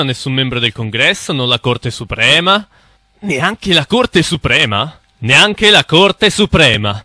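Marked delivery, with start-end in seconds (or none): 3.2-5.0 slow, rising disbelief; incredulous question. Acted. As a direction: echo it back in disbelief. Incredulous echo of the claim.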